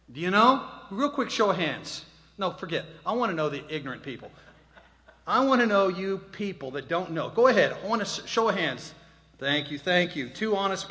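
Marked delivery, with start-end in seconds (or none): 0.1-2.0 loud call out. Real, not acted. Calling out to audience. 5.3-8.9 loud urging. Real, not acted. Egging on audience loudly.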